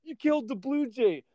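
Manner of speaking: shrill-pitched parody of a scandalized friend; mock outraged friend. Retelling the friend's horror at the magpie shot, hammed-up high whine.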